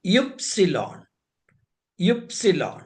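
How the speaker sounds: യുപ്സിലോൺ said oop-si-lon; German letter name ypsilon. Shown as a demonstration. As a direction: say യുപ്സിലോൺ, oopsilon. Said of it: "Y എന്നുള്ള അക്ഷരം ഉച്ചരിക്കുക".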